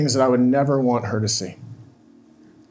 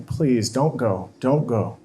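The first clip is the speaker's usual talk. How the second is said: crying plea; much slower than usual. Retold or imitated. Husband at the closet door begging wife, slow and tearful. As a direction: let it crack gently, slowly.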